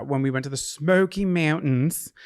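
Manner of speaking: hint of a Pennsylvania accent on "Smoky Mountains"; slight Pennsylvania accent. Real, not acted. Traveler recalls a trip to co-host, accidental Pennsylvania accent. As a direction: let "Smoky Mountains" slip into Pennsylvania vowels. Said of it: "said it in a Pennsylvania accent".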